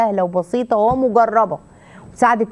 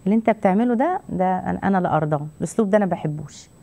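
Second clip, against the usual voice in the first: calm firm rejection; 3 semitones lower than usual. Shown as a demonstration. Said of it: "وبصيت بدون غضب".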